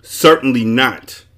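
slow, loud indignant refusal; shout. A narrator's reading. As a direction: reject it emphatically, drawn out. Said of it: "he shouted".

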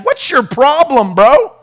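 slow, drawn-out mock-casual brush-off; casual modern paraphrase. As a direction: shrug off the big brother like a dude. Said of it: "Ren translation".

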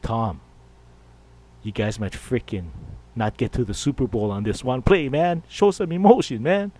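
rising frustration, ending in a near shout; exasperated plea. Pretend. Pleading with Landry to react.

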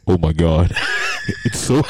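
mock overwhelmed reviewer. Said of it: "his voice went".

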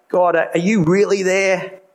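mild retold yell, drawn out slowly; retold cry to God. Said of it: "yell and scream at God".

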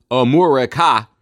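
"Amurica" sounded out with a Moor in the middle; re-pronounced America. Shown as a demonstration. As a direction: break "Amurica" into deliberate syllables. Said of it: "They change everything slightly".

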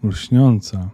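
Lśniąca, with a falling tune as the voice cracks; voice breaking. Acted. Elf says Lśniąca, his voice breaking. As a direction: let the name Lśniąca break off in sorrow. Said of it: "głos mu się załamał".

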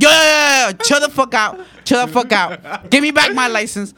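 mock-mad driver calling out for order; retold exasperated yell. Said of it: "I was so mad".

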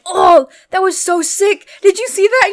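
slow, high, gushing mock excitement; imitated thrill. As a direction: draw it out like a thrilled daredevil. Thrilled driver after swerve, retold.

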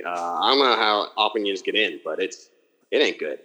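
Pittsburgh Yinzer accent, lightly done. Shown as a demonstration. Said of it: "I would like to hear it if you got one for us".

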